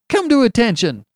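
high treble military shout; attempted thunder. A narrator's reading. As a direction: try to thunder a command, voice shooting up. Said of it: "he tried to thunder".

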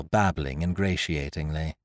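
usual speaking voice

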